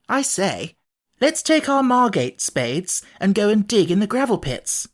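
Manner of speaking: put-on eager boy proposing a dig; hint of an excited boy; boy's voice. A narrator's reading. Cyril voiced in story.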